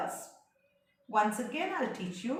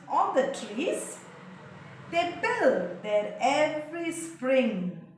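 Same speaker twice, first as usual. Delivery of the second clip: reading the poem aloud to the class, lines lifted; a teacher's careful poem read; poem recitation; 2 semitones higher than usual. Shown as a demonstration. Teacher reciting a poem to her class, clear and measured.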